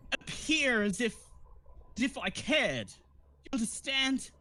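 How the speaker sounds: high voice, coy then candid; actress confiding. Acted. Actress admits the act to the party, high and confiding. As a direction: let the mask slip, still pitched high.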